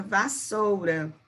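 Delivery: vassoura drawn out slowly, syllable by syllable; slow careful teacher demonstration; slow syllable demo. Shown as a demonstration. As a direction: stretch out vassoura slowly for the class. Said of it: "Próxima palavra".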